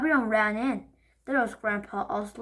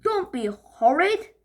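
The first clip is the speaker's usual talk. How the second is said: slow, higher and louder reproach; scolding granny; 6 semitones higher, 6 dB louder than usual. Acted. Granny scolding Dad for snapping. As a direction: tell him off slowly. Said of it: "said Granny".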